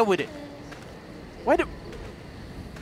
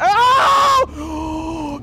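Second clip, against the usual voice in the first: startled cry; 2 semitones higher, 5 dB louder than usual. Real, not acted. Jump scare.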